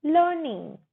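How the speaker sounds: 'लर्निंग' as LUH-ning with no R; long schwa in place of the R in 'लर्निंग'; silent R. Shown as a demonstration. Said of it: "र हमारा silent रहेगा".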